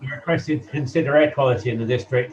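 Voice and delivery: hollow, echoey line like a wind tunnel; as if speaking inside a tunnel; echoing tunnel. Real, not acted. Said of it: "you're still in a wind tunnel".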